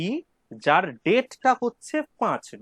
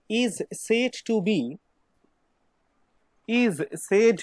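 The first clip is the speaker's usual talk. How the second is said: very slow, spaced-out dictation, key syllables pushed; much slower than usual. Real, not acted. Teacher dictating the answer for students to write, slow dictation. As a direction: dictate word by word, leaving writing time.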